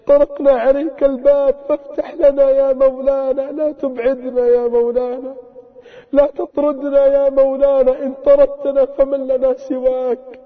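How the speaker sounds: pleading prayer, voice pressing with each call; fervent supplication. Real, not acted. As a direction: beg God earnestly, line after line. Leads a fervent closing supplication. (دعاء متضرع بصوت خاشع)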